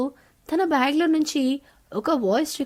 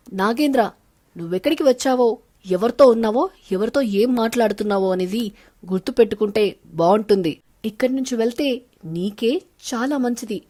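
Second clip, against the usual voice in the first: louder, hard-edged threat; mother threatening the man who bothered her daughter; angry warning; 3 semitones lower, 4 dB louder than usual. Acted. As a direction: warn him off with barely held fury. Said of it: "కోపంగా అంటుంది".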